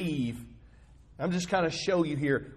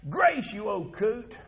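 put-on high, loud yell at the old man, voice straining; angry yell; 13 semitones higher, 4 dB louder than usual. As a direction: shout it at him like you've lost your temper. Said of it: "And I yelled back".

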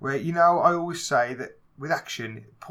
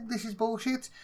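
disgusted mock verdict; 9 semitones higher, 4 dB quieter than usual. Mock reaction to bad fight scene.

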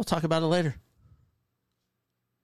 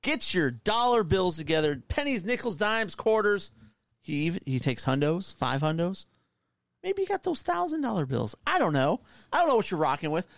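ringmaster. Pretend. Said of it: "He perked up".

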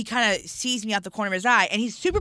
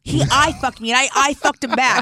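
giddy, gushing; 4 semitones higher, 3 dB louder, slower than usual. Real, not acted. Gushing about meeting a rapper.

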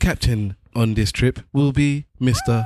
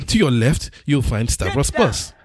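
flight attendant. Pretend. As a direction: air hostess announcement voice. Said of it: "You sound like an air hostess".

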